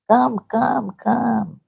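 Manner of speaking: high, calling come come like a headmistress; imitating her mummy. Mother as principal calling teachers into the office. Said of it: "I'm being like my mummy".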